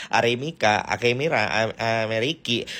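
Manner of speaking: jumbled syllables in "Aremika, Akemira", breaking off at "Am-", then "Ameriki"; tongue-tied mispronunciation. Acted. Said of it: "susah banget nyebut nama negara".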